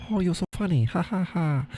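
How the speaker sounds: high-pitched mock Asian accent; high, teasing caricature Asian accent; put-on Asian accent. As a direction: do a hammed-up Asian accent with a fake laugh. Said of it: "it's the only accent I can do".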